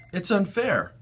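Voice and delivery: high tearful protest; sobbing. A narrator's reading. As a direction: cry out that it's unfair. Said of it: "she sobbed".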